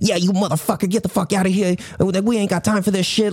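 general mixed East Coast accent. Showing how people on the East Coast talk, in a blended East Coast accent. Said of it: "a blend of all the people on the East Coast".

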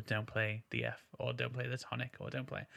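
soft, breathy, whispery voice. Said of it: "it's almost like he's whispering".

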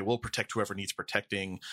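ordinary delivery

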